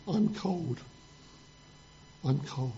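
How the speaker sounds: small, soft, lightly voiced sorry cub; a touch of pitiful, sinking away quietly; poor little bear. Poor little bear confessing to his dad, softly pitiful. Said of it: "the poor little polar bear says".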